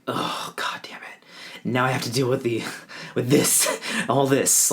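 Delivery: exasperated groan under the breath, then grumbling; annoyed. Retold or imitated. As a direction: mutter the curse like a weary complaint. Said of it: "I was just super annoyed".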